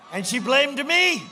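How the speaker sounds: loud, slow, leaning hard on me; and she blamed ME, thrown out at full volume; indignant shout. Real, not acted. To the rally crowd about the governor, a loud slow indignant shout.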